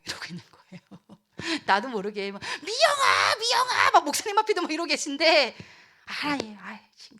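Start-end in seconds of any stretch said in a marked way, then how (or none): 2.6-3.9 loud, high shouted name; pleading shout; urgent calling. Acted. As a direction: call out repeatedly for attention. God voiced calling someone by name.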